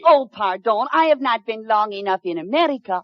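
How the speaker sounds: put-on French lady, a bit hammed-up; fake French accent. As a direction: play a fake French mademoiselle with a thick French accent. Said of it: "she has a decided French accent".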